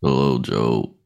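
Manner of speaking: very deep, low, fresh-from-bed voice. Podcast host greeting joe at the start of the show, deeper just-woke-up voice. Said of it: "Does my voice sound deeper because I just woke up?".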